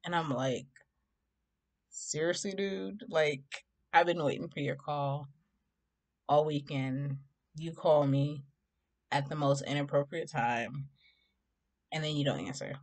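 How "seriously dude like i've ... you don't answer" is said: mildly irritated. Retold or imitated. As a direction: scold him with pauses between phrases. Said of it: "So I'm irritated, right?".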